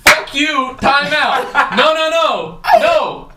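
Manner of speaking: a laughing imitation of a furious coach; retold livid yell. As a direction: replay the sideline blow-up, cracking up while you yell. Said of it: "I scream at the other ref, and I was livid".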